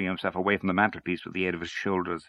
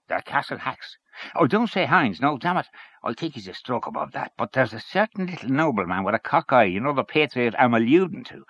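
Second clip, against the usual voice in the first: Henchy gossiping; 6 semitones higher than usual. Acted.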